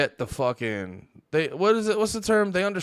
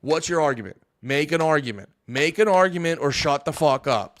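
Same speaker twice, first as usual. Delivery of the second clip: mocking retort; 5 semitones higher, 3 dB louder than usual. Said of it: "I go".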